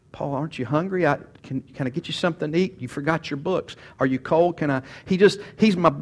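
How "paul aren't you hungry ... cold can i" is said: softer, a gentle fussing helper; caring Timothy. Retold or imitated. Paul recalling Timothy fussing over him, softly doting. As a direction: fuss over him like a devoted son. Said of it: "He calls me".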